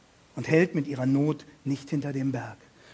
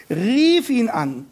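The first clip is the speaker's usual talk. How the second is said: cry out; 5 semitones higher, 7 dB louder, much slower than usual. A narrator's reading. Quoting the woman's cry.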